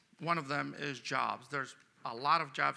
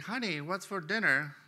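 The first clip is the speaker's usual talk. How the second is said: husband repeating the question from right behind her, a bit higher; lightly raised repeat of the call; mild mock call up close; 4 semitones higher, 4 dB louder than usual. Husband asks his wife again from right behind, mild mock call. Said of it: "right behind her and says".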